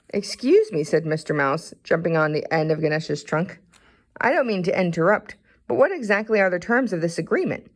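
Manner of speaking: fussy little mouse asking fast. Acted. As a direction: mouse interrupting to ask the terms, quick. Mister Mouse interrupts.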